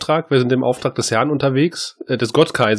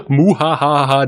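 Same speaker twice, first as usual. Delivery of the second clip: evil chuckle; 4 dB louder than usual. Acted. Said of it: "Hat seinen bösen Bruder, den bösen Sascha, mitgebracht".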